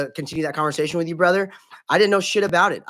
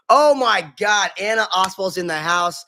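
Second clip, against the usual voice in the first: excited greeting; 4 semitones higher, 4 dB louder than usual. Real, not acted. Greeting a viewer joining stream.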